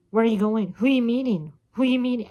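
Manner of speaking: loud, nagging grandmother questions; grandma grilling her granddaughter about who she's meeting, loud and suspicious; demanding interrogation. Retold or imitated.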